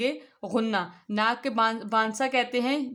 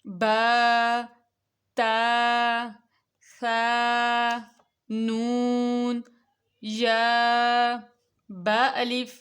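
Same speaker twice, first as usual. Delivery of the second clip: each letter named alone, slow and held; slow letter naming; much slower than usual. Shown as a demonstration. Teacher to children naming single letters slowly. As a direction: call out the letters one by one for the children. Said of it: "مفرد الفاظ کو لکھا جا رہا ہے".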